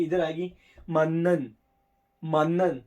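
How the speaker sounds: मानन with a long held n; slow, clear मानन, doubling the n; careful pronunciation. Shown as a demonstration. Teacher modelling मानन slowly for students. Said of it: "इसकी pronunciation ये होगी".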